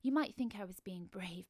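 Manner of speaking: usual speaking voice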